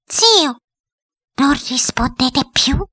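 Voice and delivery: high, slow coaxing question; insinuating. A narrator's reading. Headmistress coaxing her silent uncle, high and insinuating. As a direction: coax slowly in a high woman's voice. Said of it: "con voce insinuante".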